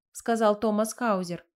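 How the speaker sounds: ordinary delivery, nothing marked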